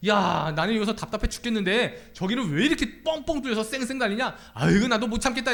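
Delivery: mock fed-up grumbling; exasperated driver. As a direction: act out running out of patience. Acted fed-up driver in traffic.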